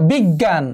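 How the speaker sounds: বিজ্ঞান said as big-gan, the second g nasalised; double g, nasalised. Shown as a demonstration. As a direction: demonstrate বিজ্ঞান with two g sounds. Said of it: "তাহলে গ, পরে আবার গ".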